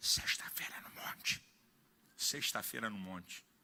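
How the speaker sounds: very quiet, hushed whisper under the breath. Retelling what guys behind him in seminary class said, retelling a whisper. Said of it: "Falando baixinho".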